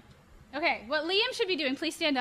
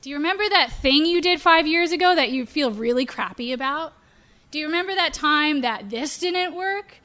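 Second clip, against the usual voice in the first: accusing roar; 3 dB louder than usual. Retold or imitated. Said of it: "the roar is could be".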